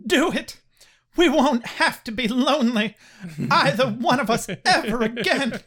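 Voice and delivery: hammed-up melodrama; dramatic reading. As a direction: read it like a soap heroine. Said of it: "dramatic reading".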